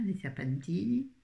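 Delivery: light, playful Italian lilt; mock Italian accent. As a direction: have a half-hearted go at an Italian accent. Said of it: "Oh, l'accent italien". (petit accent italien pour rire)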